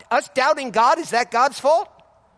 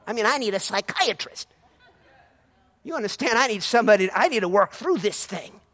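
doubting churchgoer. Retold or imitated. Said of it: "a lot of folks say".

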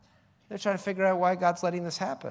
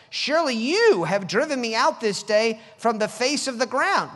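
Surely YOU have driven me out, with you leaned on hard; preacher highlighting Cain's blame-shifting with a stressed you; 5 semitones higher, 8 dB louder than usual. Shown as a demonstration. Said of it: "now watch what he says".

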